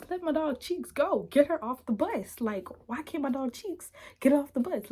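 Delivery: high, indignant re-enactment; acted protest. Demands friend's release from bus.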